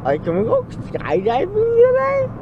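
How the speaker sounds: fast, giddy and high; giddy from medication. Real, not acted. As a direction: bounce with loopy energy. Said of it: "I'm off the medicine now".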